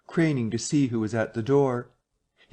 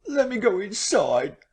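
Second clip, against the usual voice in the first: high, tearful begging; weeping plea; 9 semitones higher than usual. A narrator's reading. Marvel begging the barman to hide him, weeping. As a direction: plead through tears. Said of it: "staggering and weeping".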